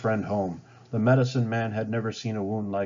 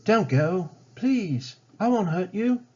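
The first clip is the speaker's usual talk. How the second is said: higher, louder pleading call; a raised, pleading call after a fleeing girl; calling after her; 10 semitones higher, 4 dB louder than usual. Acted. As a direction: call out to someone running away. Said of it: "Smith called after her".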